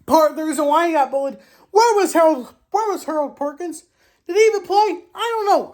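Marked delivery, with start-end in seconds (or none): 1.7-5.7 incredulous. Real, not acted. Asking where Perkins was.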